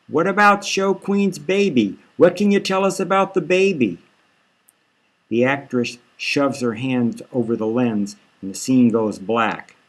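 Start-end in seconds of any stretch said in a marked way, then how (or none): 0.1-4.0 much higher, pushy shouted questions; a reporter shouting from behind the camera; yelling reporter. Acted.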